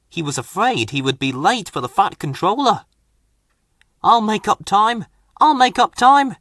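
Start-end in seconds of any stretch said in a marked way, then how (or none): 4.0-6.4 hurried chant, rising and louder; puffing in a hurry. Acted. A little engine late for the Fat Controller, hurried puffing chant. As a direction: puff it out urgently. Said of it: "he puffed".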